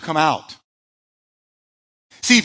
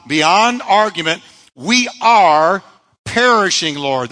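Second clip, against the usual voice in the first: emphatic insistence; 4 dB louder than usual. Acted. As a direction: insist beyond argument that they're sinking. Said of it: "emphatically, without doubt, beyond argument".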